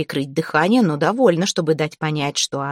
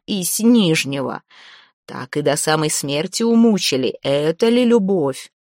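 dead man's voice. Acted. Ghost recounts his death.

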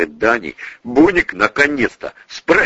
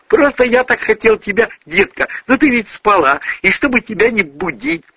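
pleading excuses; 13 semitones higher than usual. A narrator's reading. Man pleading excuses to girlfriend.

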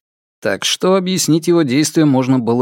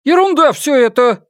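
quick, high dismissive retort; lively retort; 12 semitones higher, 3 dB louder than usual. A narrator's reading. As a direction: brush it off with spirit. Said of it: "живо возразила".

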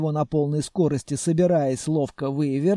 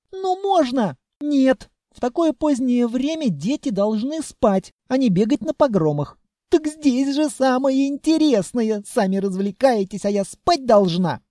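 put-on child voice; 8 semitones higher, 4 dB louder than usual. A narrator's reading. Child whining, arguing.

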